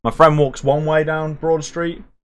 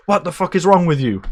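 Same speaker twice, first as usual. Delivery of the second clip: mock angry outburst; 5 semitones higher than usual. Brother suddenly aggressive at her, mildly acted outburst. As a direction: imitate someone suddenly flipping out, without shouting. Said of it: "to a one hundred".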